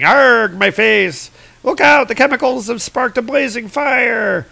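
high, alarmed cartoon cries; panicked giants. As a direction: cry out in mock agony and warn the others. Giants splashed by burning chemicals.

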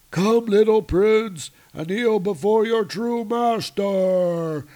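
high, slow menacing villain; dark lord. Acted. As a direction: command him to kneel, gloating. Frost giant commanding Thor.

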